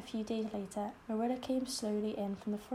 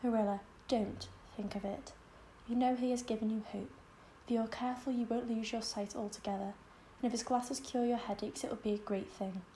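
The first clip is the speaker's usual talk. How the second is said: brave with a catch. Acted. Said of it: "with a catch in her voice".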